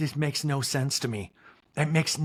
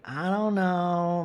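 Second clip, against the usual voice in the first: slow I don't know; much slower than usual. Retold or imitated. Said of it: "Robert Junior is like".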